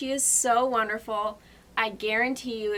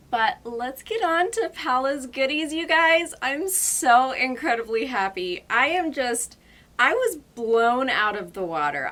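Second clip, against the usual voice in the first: louder, gushing with excitement; excited; 3 semitones higher, 6 dB louder than usual. Real, not acted. Gushing to viewers about friend's gifts, excited and loud. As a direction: burst out with thrilled energy.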